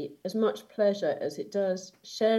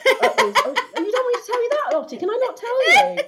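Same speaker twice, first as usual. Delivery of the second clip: laughing; 8 dB louder than usual. Real, not acted. Teasing about naughty things, laughing.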